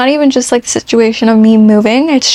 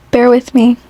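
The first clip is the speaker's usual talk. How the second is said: whispering. Real, not acted. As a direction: whisper it while searching. Searching notes, aside to viewers.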